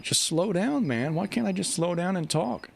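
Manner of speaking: frustrated self-talk. Retold or imitated. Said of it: "I'm like".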